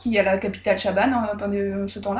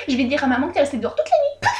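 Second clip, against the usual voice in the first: mocking taunt; 4 semitones higher than usual. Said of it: "Oulek ... qui fait".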